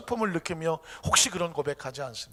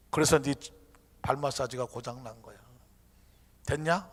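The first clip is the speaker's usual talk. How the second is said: low, patient wrap-up; calm, smiling God; 7 semitones lower, 5 dB quieter than usual. Acted. God closing his explanation to the believer, calm. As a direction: settle the matter quietly. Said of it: "하나님이 가만히 웃으면서 말합니다".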